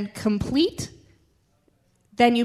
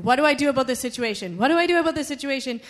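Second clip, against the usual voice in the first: retold urgent plea, quick and rising higher; urgent pleading; 3 semitones higher, faster than usual. Believer begging God for direction, retold urgent pleading. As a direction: press God for an answer, quickly.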